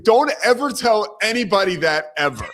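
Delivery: high, loud mock scolding; Massimino. Head coach warning his assistant, in loud mock sternness. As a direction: imitate a coach laying down the law. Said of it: "And he's like".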